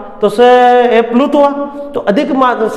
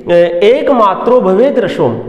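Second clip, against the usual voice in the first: slowly chanted verse line; slow shloka recitation; slower than usual. Acted. (धीमा श्लोक पाठ)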